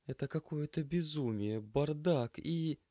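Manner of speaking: high, slow, lost and disbelieving; rising dismay, drawn out slowly; bewildered, high. Acted. Head of class staring at the chaos, high and bewildered. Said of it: "растерянно хлопнула глазами".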